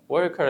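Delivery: وركر with the R only lightly touched; soft R. Shown as a demonstration. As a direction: say وركر with a soft, barely-there R. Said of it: "إن أنا نطقت ال R خفيفة". (نطق وركر بحرف R خفيف جدًا)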